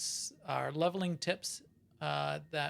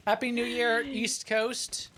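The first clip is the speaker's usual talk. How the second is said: excited cheer; 8 semitones higher, 6 dB louder, slower than usual. Real, not acted. New Year cheer.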